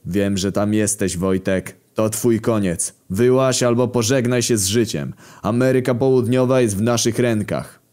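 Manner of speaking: mildly projected surrender demand; megaphone address. Acted. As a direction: address a besieged man as if through a megaphone. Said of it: "Wyciągnąłem megafon i mówiłem".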